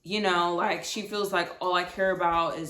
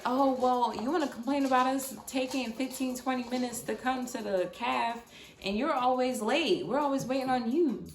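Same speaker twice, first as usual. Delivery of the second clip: higher-pitched mock of complaining friends; mimicked group complaint in a higher voice; imitated complaining friends; 5 semitones higher than usual. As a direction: lightly put on the friends' griping, pitched up.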